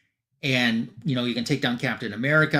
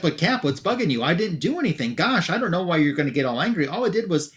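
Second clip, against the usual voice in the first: higher-pitched, lightly acted protest; quick, put-upon protest in a retelling; mock protest; 4 semitones higher, faster than usual. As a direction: plead innocence as a scolded young sidekick. Voicing the scolded young sidekick protesting.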